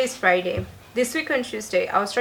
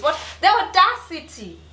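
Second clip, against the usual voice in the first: indignant; 7 semitones higher than usual. Real, not acted. Indignant rant about agent.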